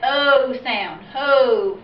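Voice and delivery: O and ho with a drawn-out long O; long O sound. Shown as a demonstration. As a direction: hold the O in ho so it says its name. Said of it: "vowel is going to say its name".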